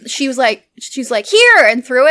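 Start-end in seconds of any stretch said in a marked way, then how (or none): 1.2-1.6 high, loud toss call; imitated call-out. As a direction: call it as if throwing something. Throwing gun, calling out, retold.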